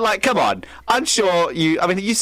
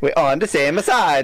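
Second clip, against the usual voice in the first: a light mock Italian accent. Friends mocking a movie line in Italian accent. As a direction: say it like a hammed-up Italian. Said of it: "whenever you do the Italian accent".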